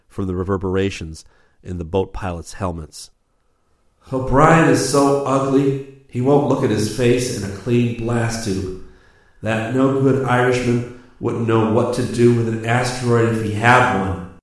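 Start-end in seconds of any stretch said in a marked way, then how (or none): 4.1-14.4 sharp clear taunt. A narrator's reading. Rip taunts O'Brien over the helmet radio, loud sharp jeer. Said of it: "make his voice sharp and clear".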